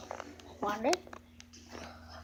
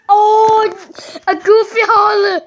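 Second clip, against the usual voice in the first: excited; 4 semitones higher than usual. Real, not acted. Cartoon Goofy yell.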